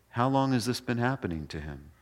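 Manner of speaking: soft, unhurried doctor-like question; calm question. Retold or imitated. Jesus calmly asks the father how long, calm and soft. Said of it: "Just really calm".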